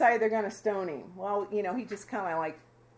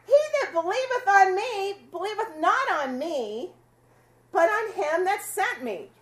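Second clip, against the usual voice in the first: Jesus calling out, a touch raised and higher; retold yell; 6 semitones higher than usual. Jesus calling out to the crowd, a mildly raised proclamation. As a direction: proclaim it like a last plea to the crowd. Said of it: "He just yells".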